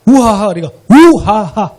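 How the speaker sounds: 우하하 in short, detached, punched syllables; staccato. Shown as a demonstration. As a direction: bounce each syllable of 우하하 separately. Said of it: "스타카토로".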